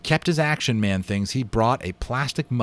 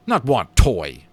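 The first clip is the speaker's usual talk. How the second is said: Indian voice; 8 dB louder, slower than usual. A narrator's reading. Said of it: "said the Indian".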